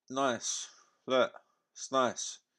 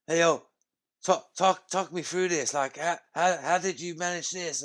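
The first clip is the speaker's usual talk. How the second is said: higher-pitched imitation of an American interviewer's accent; mock American accent; 5 semitones higher than usual. Bisping interviewing Donny, in a mocking American accent. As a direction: ham up a little American accent, yo-style. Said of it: "Bisping's doing his little American accent thing".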